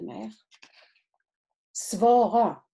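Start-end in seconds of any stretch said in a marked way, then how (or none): 1.7-2.6 "Svara." barked loud and clipped, falling hard; angry command. A narrator's reading. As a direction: demand the answer, loud and cold. Jealous partner demands an answer.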